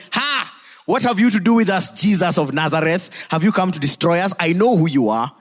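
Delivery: high-pitched outburst, read aloud; loud demon cry. Acted. Preacher reading the demon's challenge to Jesus, mild loud cry. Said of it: "he cried with a loud voice".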